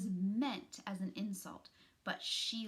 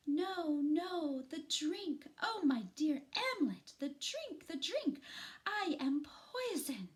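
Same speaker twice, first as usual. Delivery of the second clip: melodramatic death scene; 8 semitones higher than usual. Acted. The speaker plays a hammed-up poisoned heroine for the class. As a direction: overact a poisoning like a ham actress. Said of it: "a very dramatic possum".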